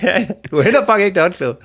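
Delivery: high, loud, laughing mock fury; mock angry refusal. Woman forbidding her date to fetch the towel, mock angry. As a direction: bark it as a hammed-up order.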